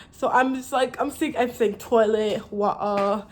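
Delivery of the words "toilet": TOILET drawn out the British English way; British pronunciation. Shown as a demonstration. Showing viewers how they now talk, British pronunciation. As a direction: say TOILET slowly, British-style. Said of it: "British English".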